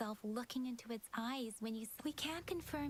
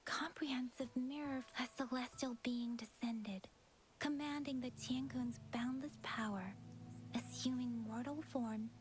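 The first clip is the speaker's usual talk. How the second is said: whispered legend narration. Acted. Recounts ancient legend.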